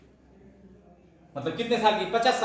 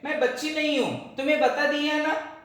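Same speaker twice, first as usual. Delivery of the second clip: put-on raised, higher child voice snapping back; higher-pitched child's retort; indignant little girl; 6 semitones higher than usual. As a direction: play the girl pitching up to insist she's grown. Same protest, voiced higher.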